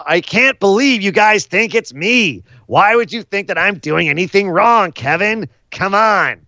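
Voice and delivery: lightly voiced villain protesting innocence; mock innocent Seth. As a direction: play the denying heel, aggrieved. Heel Seth voiced in recap.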